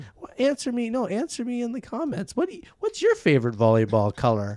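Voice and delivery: high-pitched engagement-bait YouTuber; mock YouTuber. YouTuber asking viewers a stupid question, mock influencer voice. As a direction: beg for comments in a hammed-up influencer voice. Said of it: "You know how every YouTuber says".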